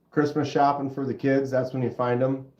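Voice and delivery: stuffy nose, congested; blocked nose. Real, not acted. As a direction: talk through a stuffed-up nose. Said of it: "God, I'm stuffy today".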